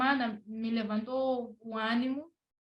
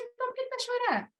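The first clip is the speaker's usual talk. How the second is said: imitating mentor; 12 semitones higher, faster than usual. Mentor's blunt question retold.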